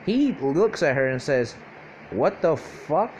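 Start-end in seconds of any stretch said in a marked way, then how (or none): 2.1-3.1 drawn-out, incredulous question; acted disbelief. Deku looks at her in a skirt, drawn-out disbelief. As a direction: stretch it out in disbelief.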